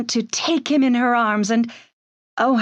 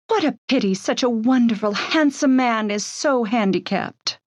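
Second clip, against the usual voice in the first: adoring. Acted. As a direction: speak of him like a smitten admirer. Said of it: "in that adoring tone of voice".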